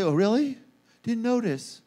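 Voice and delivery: offhand, mildly indifferent reply; unimpressed. Acted. Churchgoer who missed God's presence, unimpressed. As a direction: drop it casually after the gushing. Acts unmoved churchgoer answering the rave.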